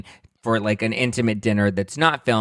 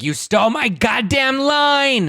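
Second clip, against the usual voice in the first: much higher, slow, slurred shout; mock drunken yell; 5 dB louder, slower than usual. Imagined Kim yells at the vlogger, mock slurred shout. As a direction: bellow it like a wronged drunk.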